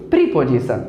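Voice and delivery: "प्रीपोजिशन" as "pripozisha" with a long i; wrong pronunciation. Shown as a demonstration. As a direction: show the wrong "प्रीपोजिशन" for contrast. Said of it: "ना कि".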